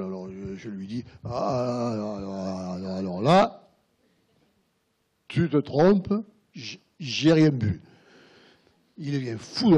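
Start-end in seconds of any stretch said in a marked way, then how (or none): 1.2-7.8 wife protesting. Retold or imitated. Wife denying drinking to husband.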